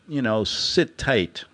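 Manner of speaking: "sit tight" drawn out slowly like a patronising guard. Retold or imitated. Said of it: "I love that".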